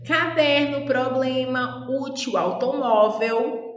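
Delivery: "caderno, problema, útil, automóvel" slowly, stressing each next-to-last syllable; drawn-out examples "caderno, problema, útil, automóvel", penultimate syllable stressed. Shown as a demonstration. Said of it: "as sílabas tônicas é a penúltima sílaba".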